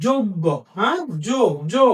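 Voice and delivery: যোগ্য said "joggo", then যো alone; demonstrated pronunciation. Shown as a demonstration. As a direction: model যোগ্য, then isolate যো with a round o. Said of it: "এটার উচ্চারণটা হলো".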